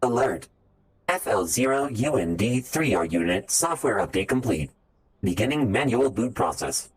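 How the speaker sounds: flat robotic announcement. Pretend. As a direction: read it like a machine status alert. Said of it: "also applicable to a robotic".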